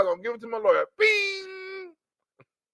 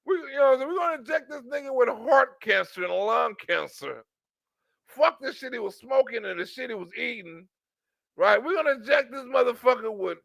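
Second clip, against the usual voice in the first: mock plotting doctors. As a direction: play the doctors hatching a plot. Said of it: "do they go out and make people".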